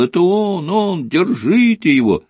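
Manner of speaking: high-pitched, narrated yell; yelling alarm. A narrator's reading. Gate guard spots the fugitive and calls to seize him, high-pitched yell. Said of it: "же заорал".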